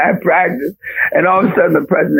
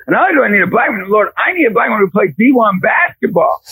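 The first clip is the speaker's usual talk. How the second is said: retold prayer; 7 semitones higher, faster than usual. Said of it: "I prayed, I literally prayed this prayer".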